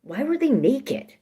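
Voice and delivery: rising and slow; slow unsure high question; hesitant question. Acted. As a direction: ask it hesitantly. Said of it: "you hesitantly ask".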